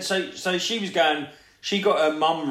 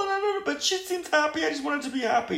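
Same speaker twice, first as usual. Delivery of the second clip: tag; 14 semitones higher, much faster than usual. Retold or imitated. Continuing mum's high crying voice.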